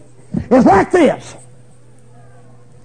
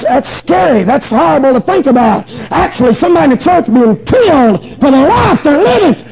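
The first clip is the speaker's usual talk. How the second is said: raised, urgent pulpit voice; impassioned preaching. Real, not acted. Preacher telling how God said preach it, impassioned preaching. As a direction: plead your case to the congregation.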